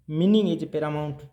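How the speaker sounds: slow, weighty, word by word; slow dictation. Shown as a demonstration. Teacher dictating the main point to students, slowly. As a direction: lay it down slowly for notes. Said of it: "teacher dictating a principle".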